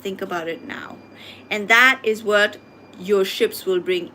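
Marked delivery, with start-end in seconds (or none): 0.0-1.0 whispered urging. Real, not acted. Urging viewers to reflect.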